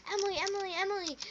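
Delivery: high sing-song calling of a name. Retold or imitated. Kids calling out to the mom's friend, high calls. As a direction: call her name across the yard, high and drawn.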